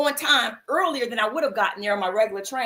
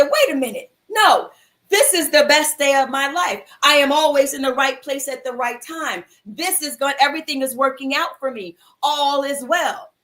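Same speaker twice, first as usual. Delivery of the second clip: firm declaration; 4 dB louder than usual. Retold or imitated. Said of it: "And I said".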